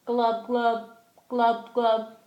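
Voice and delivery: playful imitated fish bubbles; fish glubs. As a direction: glub in pairs like a pretend fish. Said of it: "The fish says".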